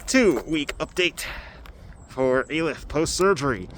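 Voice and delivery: muffled, talking through a face covering. Real, not acted. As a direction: speak muffled behind a covered mouth. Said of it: "deal with my muffled voice".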